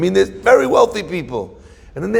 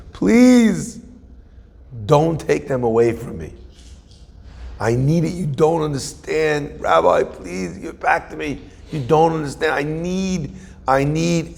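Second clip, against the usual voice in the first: mock pleading. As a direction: imitate a desperate addict pleading with his rabbi. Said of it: "he's begging and pleading".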